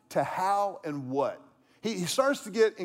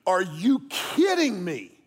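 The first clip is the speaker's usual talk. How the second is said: slow, drawn-out, louder disbelief at another driver; exasperated outburst; 4 dB louder, slower than usual. Retold or imitated. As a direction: stretch it out like you can't believe that driver. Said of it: "but I went".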